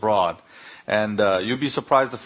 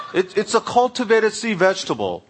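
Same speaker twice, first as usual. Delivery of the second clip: higher, chuckling as he fumbles; laughing explanation; 9 semitones higher, 3 dB louder than usual. Real, not acted. Explaining seaweed to the German diner, laughing. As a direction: laugh while hunting for the words.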